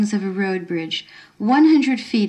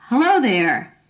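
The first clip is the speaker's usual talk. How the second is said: called out; 3 semitones higher than usual. Acted. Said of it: "a voice from behind her shouted".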